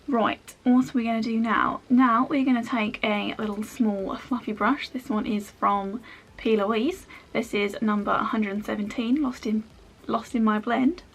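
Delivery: badly faked Australian accent; terrible Australian accent. Makeup vlogger playfully walking viewers through her brush, bad Australian accent. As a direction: put on a hammy, unconvincing Aussie accent. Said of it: "That was a terrible Australian accent".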